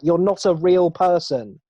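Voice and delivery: exasperated plea. Acted. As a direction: plead in exaggerated exasperation, drawing it out. Mock exasperation at fake-positive people.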